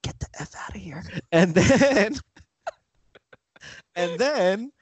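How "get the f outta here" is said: quick, hushed whisper in the ear. Acted. Host acting LeBron telling Magic to leave, whispered. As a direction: whisper it fast and secretly. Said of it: "He whispers into Magic's ear".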